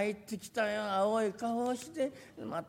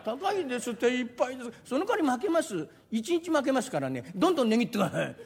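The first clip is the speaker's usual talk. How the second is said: normal talking voice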